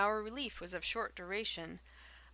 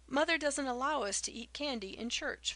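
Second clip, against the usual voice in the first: faltering; 6 semitones higher, 6 dB louder than usual. A narrator's reading. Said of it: "faltered Felicity".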